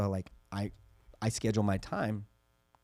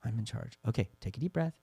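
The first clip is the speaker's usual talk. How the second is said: softer, measured coaxing; mildly calming parent; 7 dB quieter than usual. Retold or imitated. Dad talks his crying son down, retold in a calming voice. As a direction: gently settle an upset child, retold. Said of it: "Centered him down".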